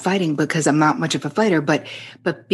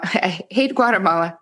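laughing; 2 semitones higher than usual. Retold or imitated. Friend repeats, laughing.

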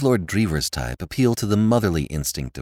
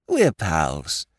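high, slow, emphatic toff voice; a dim, friendly lord pleading his case; high and loud, slow clipped phrases; silly-ass lord; 11 semitones higher, 5 dB louder, slower than usual. A narrator's reading. Lord Drever's voice.

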